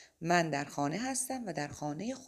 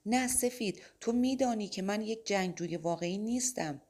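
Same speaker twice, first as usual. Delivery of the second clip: cried out; 5 semitones higher than usual. Acted. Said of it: "مایکل فریاد زد".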